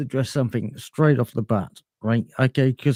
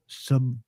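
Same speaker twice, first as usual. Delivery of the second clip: SUB- set apart as a syllable of its own; stressed first syllable; 5 dB quieter than usual. Shown as a demonstration. Showing how he emphasizes the word, SUB- isolated. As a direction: pick out SUB- by itself, then stop. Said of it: "emphasizing the first syllable".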